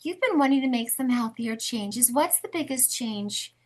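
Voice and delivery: soothing counselor tone; therapist voice. Shown as a demonstration. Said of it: "that's my therapist voice".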